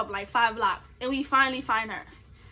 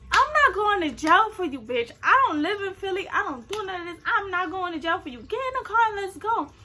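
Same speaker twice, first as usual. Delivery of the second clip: higher-pitched firm ultimatum; retold argument with raised pitch; fed up; 5 semitones higher than usual. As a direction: lay down the law, exasperated. Retelling her fed-up ultimatum.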